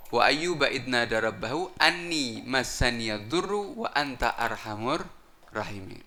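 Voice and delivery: slow chanted Arabic verse; Quran recitation. Acted.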